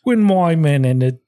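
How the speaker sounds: put-on loose, British-sounding Australian accent; amateur Australian accent, bordering on British. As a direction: have a go at Australian. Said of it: "it's Australian".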